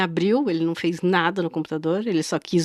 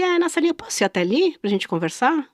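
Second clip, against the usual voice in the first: velvety seller voice; 6 semitones higher, faster than usual. Retold or imitated. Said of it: "o tom de voz parecia que eu tava com segurança".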